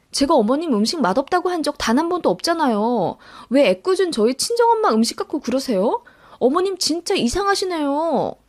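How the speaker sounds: indignant retort, pitch rising toward the end; mildly heated daughter-in-law; exasperated protest. Acted. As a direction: push back at an unfair elder. Acted quarrel with mother-in-law.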